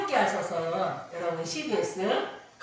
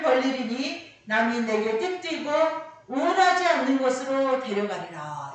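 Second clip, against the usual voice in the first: loud, raised preaching voice; emphatic pulpit recitation; forceful scripture proclamation; 3 semitones higher, 7 dB louder than usual. Acted. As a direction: declare the prophecy with solemn force. Proclaims Jesus' prophecy.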